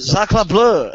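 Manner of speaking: hammy French exclamation; French accent. Pretend. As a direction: cry it like a cartoon Frenchman. Mock French exclamation in play.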